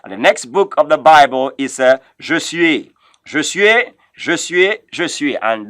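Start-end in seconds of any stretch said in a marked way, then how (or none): 2.2-5.4 Josué said "zho-zu-AY"; French pronunciation. Shown as a demonstration. Teacher drills the next book, Josué as "zho-zu-AY". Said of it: "that is how that is pronounced".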